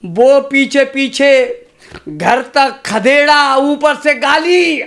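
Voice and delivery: measured, rhythmic stage recitation of a poem. Acted. Poet reciting verse to a kavi sammelan crowd, rhythmic. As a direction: recite to the audience with a steady beat.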